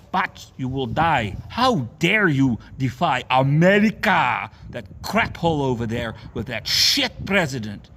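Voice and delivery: fiery street-preacher rant; raging sermon at the churchgoers; preaching. Real, not acted. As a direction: preach it hard at the crowd. Preaches throughout.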